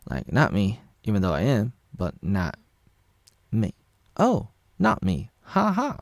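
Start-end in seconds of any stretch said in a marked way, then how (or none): 4.2-6.0 high, slow, falsetto sing-song; mock innocence. Vlogger parodying Flopper's denial, coy falsetto. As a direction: play coy and fake innocent.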